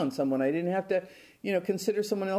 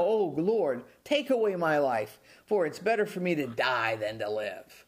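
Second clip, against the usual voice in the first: irritated. Retold or imitated. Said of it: "his tone and his attitude is irritated".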